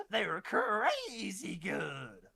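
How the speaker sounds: drawn-out, swooping gush on crazy; sudden burst of energy. Real, not acted. Hyping up how good they were, suddenly energetic. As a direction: stretch it out with sudden, over-the-top energy. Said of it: "Jay got all the energy all of a sudden".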